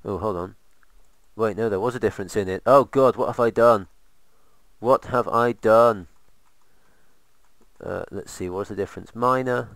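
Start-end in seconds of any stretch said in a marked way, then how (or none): 2.7-6.1 hammed-up loud cry, pitched up; mock despair. Gamer discovers his build mistake, hammed-up loud wail. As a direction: wail it like a melodramatic disaster.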